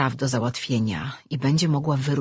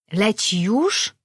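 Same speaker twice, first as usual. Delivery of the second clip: slow, small creature voice asking; lightly voiced anxious pet; small creature question; 5 semitones higher, much slower than usual. A narrator's reading. Pet creature asking slowly if she leaves now.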